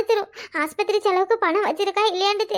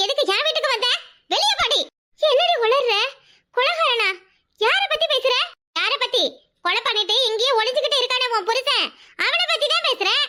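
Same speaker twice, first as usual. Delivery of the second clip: higher, sharp accusing retorts; angry quarrel; 3 semitones higher than usual. Acted. Two women quarreling over a murder, angry retorts. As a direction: hurl it back at her in anger.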